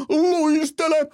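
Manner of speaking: high-pitched mock yell of an order; imitated coach's shout. Angry coach screaming at his players in the locker room, imitated high yell. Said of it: "Se huutaa siellä vakavissaan".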